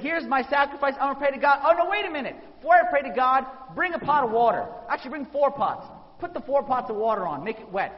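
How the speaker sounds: a prophet ordering the crowd about, loud and sure of himself; booming the orders out to the crowd; bold commanding prophet. Retold or imitated. Elijah calling out his orders.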